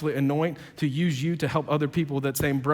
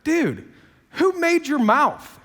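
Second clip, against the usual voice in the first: high, loud, slow put-down with a laugh in it; God mocking Moses's excuse, laughing and loud; sassy God; 8 semitones higher, 5 dB louder, slower than usual. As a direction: tease him with attitude. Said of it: "God has some attitude".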